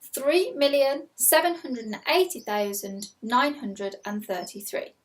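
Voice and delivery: slow, careful repeat of the number; slow school dictation. Shown as a demonstration. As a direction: dictate it again slowly. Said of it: "I'll read that again".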